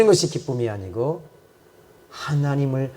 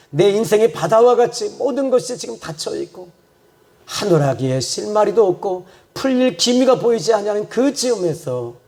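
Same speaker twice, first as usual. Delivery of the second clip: earnest preaching; 7 semitones higher than usual. Real, not acted. Preacher picturing a life with no way out, earnest preaching. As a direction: preach the hopelessness with feeling.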